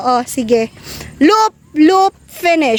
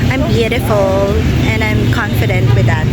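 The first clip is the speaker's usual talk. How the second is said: mock confident; 5 semitones lower than usual.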